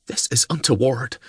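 short, prim and disapproving; clipped. Acted. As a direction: bite off each word primly. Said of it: "she clipped".

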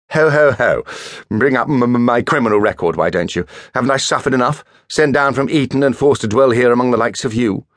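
mock-wounded toff. A narrator's reading. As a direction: ham up the hurt pride. Perry's mock-wounded stammering.

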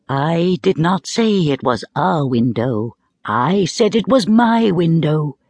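put-on slow, patient wind correcting the boy; deliberate, lightly voiced wind; the wind patiently corrects Diamond, slowly; north wind voice. The wind's voice speaks.

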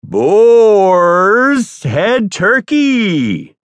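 milk "Boar's" like a hammy radio host; over-the-top announcer. Shown as a demonstration. Repeating for the director, an overblown slow announcer read.

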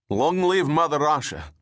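the soldier roars it out with pride; fervent cheer. Acted. Soldier cheers his motherland.

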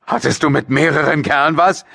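high, heated father's question; angry accusation. A narrator's reading. Father interrogating his daughter about other men, angry accusing outburst. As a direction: fling the accusation at her.

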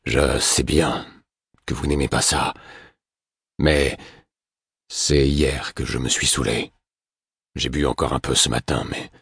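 lightly voiced exhausted man; weary drunk man. A narrator's reading. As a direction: drag each word like a tired drunk. Tired drunk man answers.

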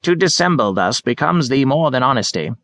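put-on high, theatrical old man; hammy Shakespearean actor. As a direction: ham up the mock Elizabethan English. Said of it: "atrocious efforts to extemporize Shakespeare".

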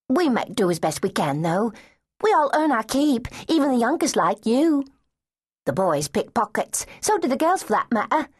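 a tough lass softening for a little one; street girl. Acted.

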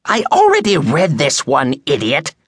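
put-on high-pitched, indignant old woman's wail. A narrator's reading. Angry customer to bookstore clerk, wailing. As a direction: wail it at a much younger bookseller. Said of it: "she wailed".

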